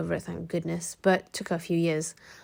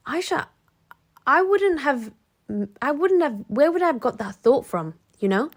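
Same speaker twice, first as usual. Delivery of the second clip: much higher, louder, pleading voice; upset friend; 6 semitones higher, 4 dB louder than usual. Retold or imitated. Girlfriend asking her friend Aisha whether she imagined it, high and pleading.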